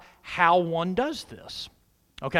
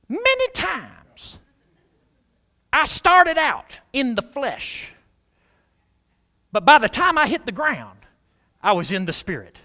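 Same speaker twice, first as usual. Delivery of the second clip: Brother Hagin; 5 semitones higher than usual. Retold or imitated. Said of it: "try to say it like him".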